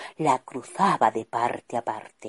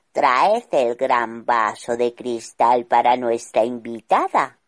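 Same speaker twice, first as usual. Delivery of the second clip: slightly lower, firm order to subjects; commanding king; 3 semitones lower, 4 dB louder than usual. Acted. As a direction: bark it to his servants. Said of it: "ordenó".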